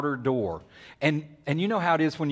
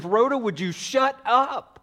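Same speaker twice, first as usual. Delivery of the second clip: high, loud, fed-up outburst; acted indignant telling-off; exasperated scolding; 9 semitones higher, 3 dB louder, slower than usual. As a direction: shut her down with pitched-up irritation. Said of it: "somebody stands up and says".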